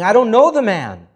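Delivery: loud, high, cursing denial; shouted denial. A narrator's reading. Peter cursing at the courtyard crowd, shouting. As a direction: yell it like you're cornered.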